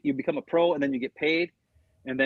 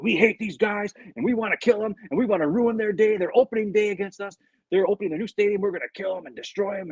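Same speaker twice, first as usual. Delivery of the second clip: retold rallying speech, pitched up; fired-up pep talk; 4 semitones higher than usual. Player talking to the team before Vikings game, fired up. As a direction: imitate a player rousing the locker room. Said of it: "to get everybody fired up".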